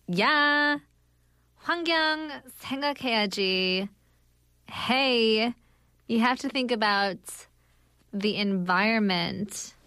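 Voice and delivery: lightly acted Californian accent; a hint of Californian in a staged reply. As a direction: answer like a Californian, phrase by phrase. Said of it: "You can be Californian".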